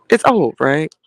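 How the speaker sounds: whispered aside; a conspiratorial whisper to the viewers. Real, not acted. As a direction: hush it like a secret. Aside about the old movie.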